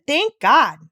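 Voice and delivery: loud, high burst of relief; overjoyed boy thanking God aloud; joyful exclamation. A narrator's reading. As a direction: blurt it out in sheer joy. Peter overjoyed at gift.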